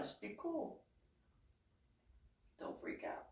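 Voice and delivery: very soft, fading to a whisper; hushed plea. Retold or imitated. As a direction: act a timid plea for calm. Last hushed plea before showing arm.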